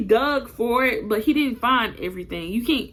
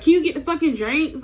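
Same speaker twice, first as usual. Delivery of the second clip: higher-pitched, exasperated retold question; irritated demand; 6 semitones higher, 3 dB louder than usual. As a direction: act out an impatient demand, rising at the end. Acted quarrel over the drinks.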